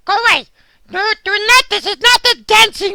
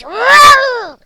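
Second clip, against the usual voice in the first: loud whoa; 3 semitones higher, 4 dB louder than usual. Acted. Dog yelling as the screen shakes. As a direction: cry out as the world shakes.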